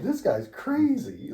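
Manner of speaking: high, slow spooked voice; batter spooked. Retold or imitated. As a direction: back off, unnerved. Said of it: "the guy was like".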